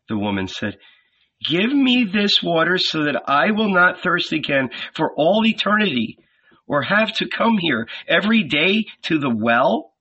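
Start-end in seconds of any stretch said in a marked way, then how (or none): 1.5-9.9 eager, pleading, higher pitch; woman's voice. Acted. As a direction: ask for the water with longing. Woman asks for water.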